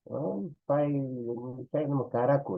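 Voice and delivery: imitating speakers. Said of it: "constantemente escuchamos".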